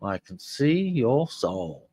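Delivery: slow, deliberate reading. Shown as a demonstration. Host reading the heard reversal back to listeners, slow and deliberate. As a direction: spell out "I can see your soul" slowly, word by word. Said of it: "that's what happens when we get down to the speech".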